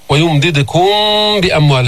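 ويمددكم بأموال with the م hummed before ب; lingering hum joining ويمددكم to بأموال; labial ikhfa. Shown as a demonstration. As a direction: hold a nasal م at the end of ويمددكم. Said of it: "هذا الإخفاء الشفوي".

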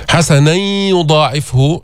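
حسنا يضاعفه with the nun merged nasally into ي; slow حسنا يضاعفه with ghunna; nasal merge. Shown as a demonstration. Teacher models the nasal merge for the class. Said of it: "هذا إدغام غير مستكمل التشديد".

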